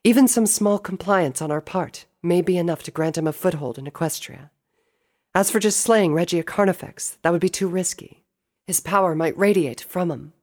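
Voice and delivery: high-pitched sister voice; doubtful at first, then high and determined; resolute princess. Acted. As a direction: argue earnestly, pitched well up. Celestia objects and explains.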